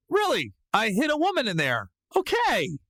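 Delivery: high-pitched mocking incredulity; sarcastic disbelief. Suspect watching guard open a drawer, sarcastic high disbelief. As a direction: question the absurd search, pitch jumping up.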